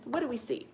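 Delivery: "What do we see" flowing as one question; question intonation. Shown as a demonstration. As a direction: ask "What do we see" smoothly, like really wanting to know. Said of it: "I'm gonna ask a question".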